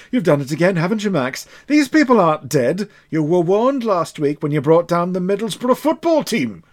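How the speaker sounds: lightly voiced exasperated controller; scolding Max. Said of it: "she says to Max".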